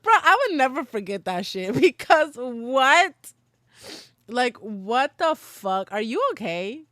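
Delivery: loud, laughing outburst of shock; half-laughing what-the-hell; laughing disbelief. Real, not acted. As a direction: crack up in disbelief, loud and high. Laughing disbelief at remembered accusation.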